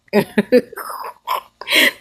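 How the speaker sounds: short breathy laugh. Real, not acted. Mocking Michael's look, a short laugh. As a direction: let out a brief laugh. Laughs between her own words.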